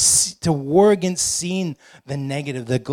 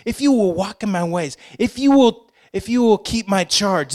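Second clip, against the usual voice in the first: lightly voiced commander, pitched higher; military charge; 5 semitones higher than usual. The Lord charging his people, mildly military command. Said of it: "that's a, that's a military".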